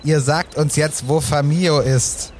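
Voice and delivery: slow, heavy threat; slow menacing demand. Acted. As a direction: press each word like a threat. Hunter repeats demand, slower.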